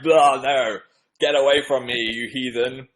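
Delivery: loud, hammed-up horrified refusal; mock disgust. Joking to fans about being offered Pepsi, mock disgust. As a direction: make a show of rejecting something vile.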